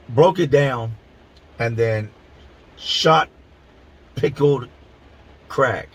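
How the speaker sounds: halting, word-by-word incredulity. Retold or imitated. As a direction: spell it back to him in disbelief. I'm standing here completely blown.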